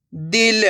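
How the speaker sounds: दिल with a short, barely drawn-out i. Shown as a demonstration. Teacher modelling the word for beginners, दिल with short i. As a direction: say दिल briefly, vowel not stretched. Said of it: "तो कम खींच के पढ़ेंगे".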